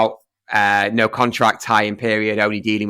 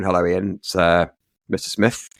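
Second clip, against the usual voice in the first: serious caller; 4 semitones lower than usual. Retold or imitated. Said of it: "he's quite a serious guy on the phone".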